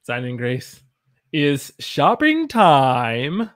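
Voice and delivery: stretched, slow, loud shopping time; Jim Carrey style. Pretend. Teacher hamming a chat phrase like Jim Carrey. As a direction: drag out shopping time like a goofy comic. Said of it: "look more like Jim Carrey when I say that".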